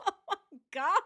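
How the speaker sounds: high-pitched mock sobbing; fake crying. Commentator parodies Nicole's tears, exaggerated fake crying. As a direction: wail "oh my God" in badly faked tears. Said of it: "And here's Nicole".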